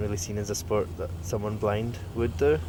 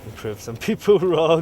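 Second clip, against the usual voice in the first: laughing; 7 semitones higher, 9 dB louder than usual. Real, not acted. Laughs at proving doubters wrong.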